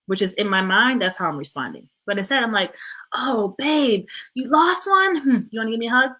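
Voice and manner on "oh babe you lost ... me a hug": soothing parent. Acted. Soothes upset child in acted example.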